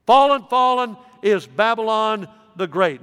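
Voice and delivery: put-on a preacher proclaiming Babylon's fall with force; emphatic proclamation. Shown as a demonstration. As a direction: thunder it as the angel's mighty cry. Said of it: "It is emphatic".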